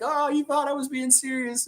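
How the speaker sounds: high, amused retold reaction; laughing. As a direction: say it through mock-incredulous amusement. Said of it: "She's laughing with me".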